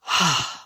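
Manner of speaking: a long, open sigh letting the breath go; big sigh. Shown as a demonstration. Teacher showing students how to let the exhale go, a big sigh. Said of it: "like a big sigh".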